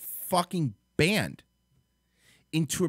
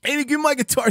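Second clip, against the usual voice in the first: Owen impression; 13 semitones higher, 6 dB louder, faster than usual. Host mimics the caller bit.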